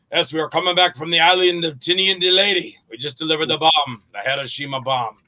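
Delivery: a hint of the salty old captain, lightly voiced; telling the war story like the old sailor in Jaws, understated; Quint's monologue. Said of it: "So I start out with the".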